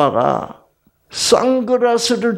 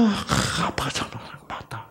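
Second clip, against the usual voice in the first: soft, breathy whispered comfort; tender whisper; 11 dB quieter than usual. Retold or imitated. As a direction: whisper it to calm a crying child. Soothing whisper to daughter. (아이를 달래는 속삭임)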